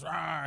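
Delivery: playful spoken roar; mock lion roar. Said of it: "and he roars".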